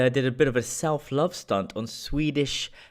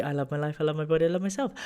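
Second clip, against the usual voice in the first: quiet quoted affirmation; 3 semitones higher, 5 dB quieter, much faster than usual. Retold or imitated. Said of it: "she loved the".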